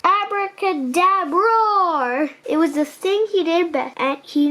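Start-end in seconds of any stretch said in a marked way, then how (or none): 0.0-2.3 showy magician's roar; magic roar. Acted. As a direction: spell then a playful dinosaur roar. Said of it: "roar when he did magic tricks".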